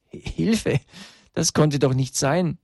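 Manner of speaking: high, startled exclamation; shocked disbelief. A narrator's reading. Children seeing themselves in the violent crowd, shocked disbelief.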